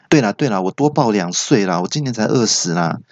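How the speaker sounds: mildly impatient retort. Acted. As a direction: brush the caller off with light irritation. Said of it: "那陈小姐不耐烦就说". (略带不耐烦地打发人)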